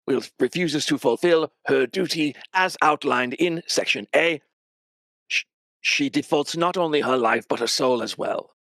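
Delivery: menacing official reading the clause aloud; contract-reading demon. Acted.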